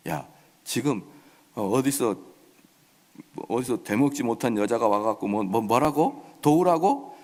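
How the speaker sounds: muted, halting disdain of a mock king; grumbling contempt, ending on a questioning lift; sarcastic. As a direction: sneer at the beggar in disbelief. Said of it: "이러면서 빈정거립니다".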